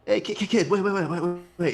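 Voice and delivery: urgent. Acted. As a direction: stop the kid in a rush. Marcus stopping the kid.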